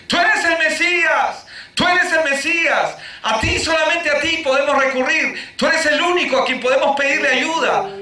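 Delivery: grito alto y lento, a plena voz; gritando en la calle. Retold or imitated. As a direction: clamar como los ciegos en la calle. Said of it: "Eso es lo que ellos están gritando en la calle". (gritando "tú eres el Mesías" a toda voz)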